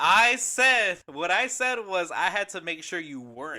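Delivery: loud, insistent correction; emphatic self-defence. Real, not acted. Correcting the co-host about own words, emphatically. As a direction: raise your voice to set it straight. Defends what was said earlier.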